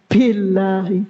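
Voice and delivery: Billahi, slow, with a puff of air on the "b"; breathy ba. Shown as a demonstration. Teacher shows the wrong breathy ba, laughing. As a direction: Billahi with an aspirated "b". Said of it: "Jadi jangan dibaca bi".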